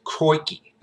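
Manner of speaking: high, drawn-out Aussie "crikey"; Steve Irwin. Retold or imitated. Quoting the famous catchphrase, imitated Aussie accent. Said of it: "from Steve Irwin".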